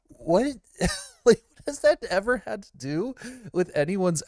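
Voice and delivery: high-pitched, laughing disbelief; incredulous. Real, not acted. Streamer questioning what that has to do with success, incredulous. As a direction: blurt it high, baffled and amused. Baffled by the rant just imitated.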